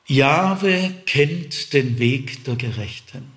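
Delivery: slow, weighty reading of the psalm verse; slow solemn reading. Shown as a demonstration. Preacher reads the verse to the congregation, slowly and solemnly. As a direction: let each word of "Jahwe kennt den Weg der Gerechten" land slowly as a firm fact. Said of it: "Das ist eine Feststellung".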